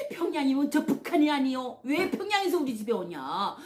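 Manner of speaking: mildly imitating a mother caught off guard, half laughing; startled mother. Mother learning her son's bride is from Pyongyang, mildly imitated shock. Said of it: "막 깜짝 놀라시는 거예요".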